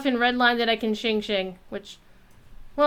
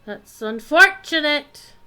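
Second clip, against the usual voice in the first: mock dismay; 4 semitones higher, 9 dB louder, slower than usual. Real, not acted. Reacting to bad game luck.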